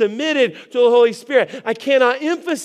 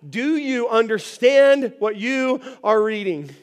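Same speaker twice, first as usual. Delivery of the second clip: slow, deliberate question; carefully spaced, drawn-out question; measured scripture question. Retold or imitated. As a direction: read it out word by word. Reading the question aloud from scripture.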